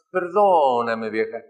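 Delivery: drawn-out, fading plea; slow pleading apology. Retold or imitated. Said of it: "mi papá decía". (súplica lenta y apagada)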